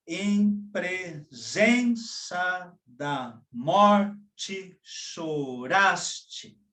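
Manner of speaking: very slow, stress every third syllable of "tu choraste em presença"; scanning ternary verse. Shown as a demonstration. Teacher demonstrating ternary rhythm from a poem, slow and stressed. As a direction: chant the lines in a heavy three-beat. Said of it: "Por exemplo".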